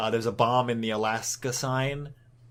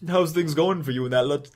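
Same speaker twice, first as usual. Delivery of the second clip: faint, shaky attempt at a Southern accent; failed Southern accent; 3 semitones higher than usual. Southern guy greeting Howard, botched Southern accent. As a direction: try a Southern accent and fumble it. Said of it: "I can't fucking do a Southern accent".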